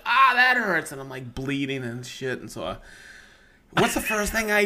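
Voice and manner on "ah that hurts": pitched way up and a bit louder; high pained cry. Retold or imitated. Retelling his saw injury, a high mock cry of pain. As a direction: mimic the sting of the cut, high. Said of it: "and I was like".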